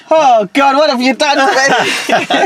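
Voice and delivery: high, laughing mock wail; overcome with emotion. Real, not acted. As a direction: cry out through laughter, overwhelmed. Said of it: "It's made me fucking emotional".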